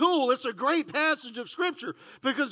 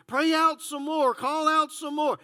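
taunting; 3 semitones higher than usual. Acted. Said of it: "starts taunting them".

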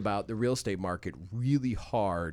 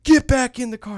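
stern cop order; 12 semitones higher, 10 dB louder than usual. Retold or imitated. Cop orders him back.

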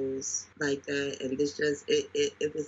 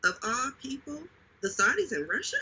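incredulous; 9 semitones higher, faster than usual. Real, not acted. Outraged disbelief at Saudis and Russia.

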